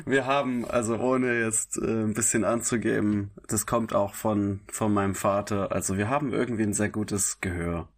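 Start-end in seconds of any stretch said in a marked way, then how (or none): none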